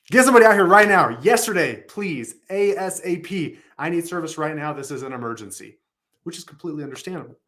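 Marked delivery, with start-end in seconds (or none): 0.1-5.8 higher, louder impatient customer demand. Acted. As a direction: push like a panicked customer. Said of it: "what is a customer likely going to say".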